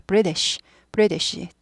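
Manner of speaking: 브리티시 as falling BRI-desh, t like d; weakened-t British. Shown as a demonstration. Teacher modelling British, weakened t. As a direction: stress front of 브리티시, let the t go weak. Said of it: "약화되죠".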